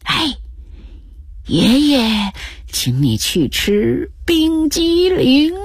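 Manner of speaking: high, slow, whispery at the end; hushed coaxing. A narrator's reading. Grandpa in granddaughter's ear offering ice cream, hushed coaxing. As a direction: coax a child with a secret treat. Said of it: "小声说".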